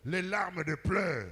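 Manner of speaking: high, loud, slow proclamation; impassioned preaching. Real, not acted. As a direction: stretch it out with force. Preacher proclaiming at full force.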